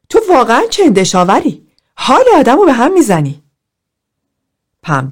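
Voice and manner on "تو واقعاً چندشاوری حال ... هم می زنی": higher, louder disgusted outburst; shouting in disgust. Acted. Pam shouting at Philip in group, disgusted yell. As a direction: yell it at him like he makes you sick. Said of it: "پم فریاد زد".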